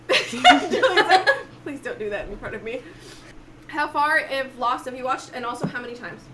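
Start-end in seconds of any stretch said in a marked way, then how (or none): 0.1-2.8 laughing through the words. Real, not acted. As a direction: laugh while protesting. Laughing refusal.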